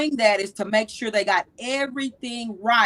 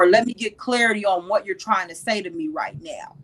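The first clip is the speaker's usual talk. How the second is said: a whispered example line; 3 semitones lower than usual. Shown as a demonstration. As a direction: whisper it, no voice at all.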